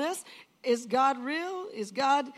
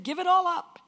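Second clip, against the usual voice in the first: higher, louder commanding call; God's loud command; 6 semitones higher, 7 dB louder than usual. Retold or imitated. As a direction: proclaim it with authority. God's command retold, first take.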